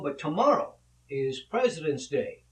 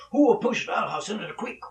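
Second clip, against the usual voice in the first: raised, loud bad Italian accent; hammed-up Italian father pressing his question; louder Italian father; 5 semitones higher, 5 dB louder, faster than usual. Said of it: "he said more loudly".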